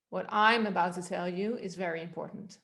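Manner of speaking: "I'm" pushed above the other words; stress on I. Shown as a demonstration. Coach repeating the onset exercise, stressed "I'm". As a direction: make "I'm" the focus. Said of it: "to the word I".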